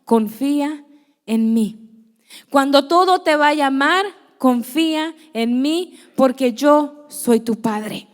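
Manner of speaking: slow, weighty divine reassurance; voice of God. Retold or imitated. God reminding her to trust him: slow, solemn voice. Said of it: "el Señor me recuerda las mismas palabras".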